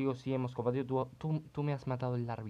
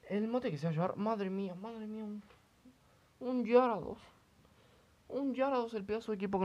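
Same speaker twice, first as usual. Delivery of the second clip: higher, awestruck gushing; excited; 9 semitones higher than usual. Real, not acted. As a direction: marvel at the new Gyarados. Excited about Gyarados team. (asombro emocionado, agudo)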